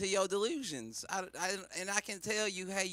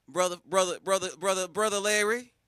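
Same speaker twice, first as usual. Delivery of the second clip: preacher calling out; 8 dB louder than usual. Acted. Preacher calling out brother Larry.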